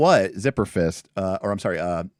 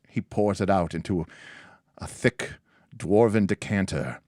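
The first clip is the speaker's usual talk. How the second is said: game master narration. Acted. Game master setting a tavern scene for players, measured narration.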